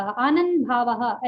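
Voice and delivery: आनंद भावः said slowly with a long आ; slow recitation. Shown as a demonstration. Teacher modelling slow Sanskrit recitation for the class. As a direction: draw out आनंद भावः syllable by syllable. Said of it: "ऐसा नहीं पढ़े".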